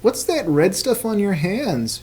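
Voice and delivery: put-on high, soft little girl voice. Rosie's high asking voice.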